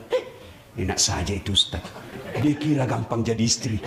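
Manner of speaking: a hint of a grumbling husband, low; lightly mock the husband's complaint. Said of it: "pasti dia bilang". (suami menggerutu soal ustaz, sedikit diperankan)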